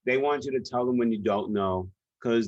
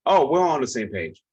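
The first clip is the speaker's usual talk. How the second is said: louder, mock CEO assurance; breezy insistence; 3 semitones higher, 5 dB louder than usual. CEO waving off the consultant's session, breezy insistence. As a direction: brush it off with a punchy "oh".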